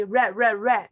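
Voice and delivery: "re, re, re" repeated as in "red"; learner's sounding-out. Retold or imitated. Teacher imitating students sounding out R E, repeated short syllable. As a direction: punch out each "re" separately. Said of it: "Whenever I see R E".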